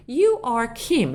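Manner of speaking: slow model sentence. Shown as a demonstration. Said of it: "تو کیم هستی؟".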